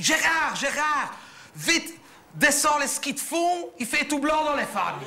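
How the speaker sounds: excited call to Gérard, voice high; calling out in a rush to her husband; shouting to husband. Retold or imitated. Wife calling husband to fetch the skis, excited shout. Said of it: "je crie".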